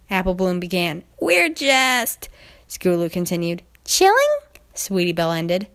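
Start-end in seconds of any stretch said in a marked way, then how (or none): 1.2-2.3 lightly voiced unsure filly; hesitant filly. Apple Bloom stalling her sister, hesitant. 3.8-4.4 very high, rising squeak; unsure squeak. Acted. Sweetie Belle offering a lame excuse, high and unsure.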